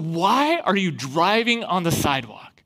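slow, drawn-out incredulous question; imitated officer slowly demanding an explanation. Cop questioning students about the sidewalk, incredulous.

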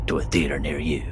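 slow, booming trailer announcer; horror trailer voice. Acted. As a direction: boom it like a movie trailer. Parody movie trailer over music.

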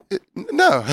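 very high, stammered no; unconvincing denial. Retold or imitated. Answering someone who asks if you hate them, high stammer. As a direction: fake a denial badly. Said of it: "You're like".

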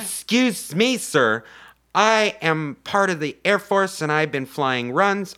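high-pitched attempt at a British accent. Heroine addressing the men on the radio, bad British accent. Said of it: "all in a British accent".

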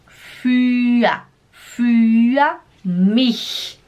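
slow "für" ending in an "a" sound; R com som de A. Shown as a demonstration. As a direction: let the R in "für" melt into "a". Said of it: "faz sim um som de A". ("für" devagar, terminando em "a")

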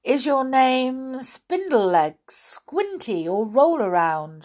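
questioning. A narrator's reading. Queen guessing the creature's name, questioning. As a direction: try each odd name as a question. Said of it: "she asked".

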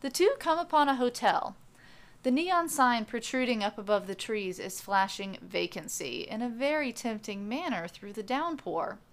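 steady storyteller voice setting the scene; story narration. A narrator's reading. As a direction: read it like an audiobook narrator.

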